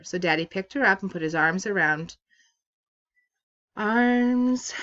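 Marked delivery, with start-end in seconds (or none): 3.8-4.7 choked up, higher and louder; voice breaking. Real, not acted. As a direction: voice cracks with real emotion. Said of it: "so sorry guys".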